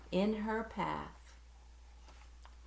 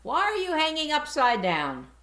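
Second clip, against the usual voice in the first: curious creature; 10 semitones higher, 7 dB louder than usual. Acted. Strange creature questions Stella.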